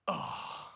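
winded, voiceless "oh"; stunned exhale. Retold or imitated. Man hears his word saved friend's faith, stunned sigh. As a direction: let the breath go as if floored.

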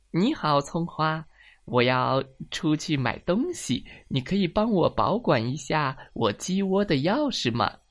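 lightly voiced polite rooster asking a favour; friendly rooster character. Rooster asks hen a favour.

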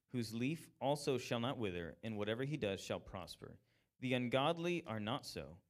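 solemn reading of Psalm one to the congregation; scripture reading. Acted. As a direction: read the psalm with weight. Reads Psalm one aloud.

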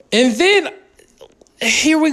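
a hushed whispered lead-in. Real, not acted. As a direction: whisper it like a secret setup. Dramatic lead-in to a story.

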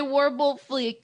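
"fleek" with a long ee; "fleek" in place of "fleck"; own pronunciation. Real, not acted. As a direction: say "warble fleek", rhyming the last word with "cheek". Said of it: "I pronounce it differently".

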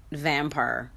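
slow "vampire" with a hint of Southern drawl. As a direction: imitate a Southern "vamper" lightly.

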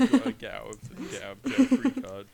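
high, loud playful yell; excited mock shout. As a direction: shout it like a game announcer. Acting out Monopoly game.

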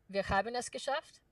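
trailer line in German pronunciation; German accent. Retold or imitated. Actor recalling a game trailer line, in a German accent. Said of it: "I still remember the German was".

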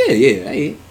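quick, high "yeah yeah"; high-pitched fib. Retold or imitated. Telling friends she ate, a high fib. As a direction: brush it off in a high voice.

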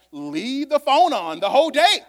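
father's advice called out loud. Retold or imitated. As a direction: raise it for the punchline. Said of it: "He was like".

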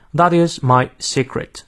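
slow British English demo. Shown as a demonstration. Teacher models British pronunciation for learners, British accent. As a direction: take it slowly in a British accent. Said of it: "我们来看一下英式发音".

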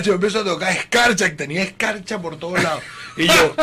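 usual speaking voice

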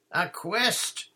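high, loud exclamation; thrilled knight. A narrator's reading. Knight learns the children seek North Tower, thrilled. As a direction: seize on it with sudden grand delight. Knight delighted to hear of quest.

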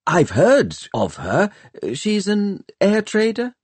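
feigned casual innocence, voiced high; innocent young Tom. A narrator's reading. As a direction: ask it innocently, pitch climbing at the end. Tom hides happiness, feigns innocent question.

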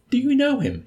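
high, loud, delighted question. A narrator's reading. Old man learns Nately knows his target, delighted. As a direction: pounce on it with delight. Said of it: "inquired the old man with delight".

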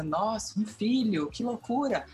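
mock amazement. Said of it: "quando o filho aparece".

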